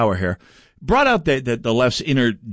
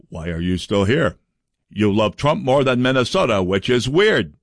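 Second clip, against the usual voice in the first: Richard Karlbaum impression; 2 semitones lower than usual. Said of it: "excellent Richard Karlbaum impression".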